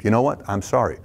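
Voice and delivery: calm apology. Shown as a demonstration. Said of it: "Take ownership".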